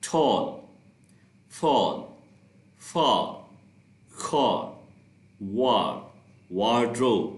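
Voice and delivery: each word said on its own, clearly and slowly, for students to repeat; repeat-after-me words. Shown as a demonstration. Teacher reading a word list for students to repeat. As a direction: model each word separately, with a pause between them. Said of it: "words repeat करते हैं".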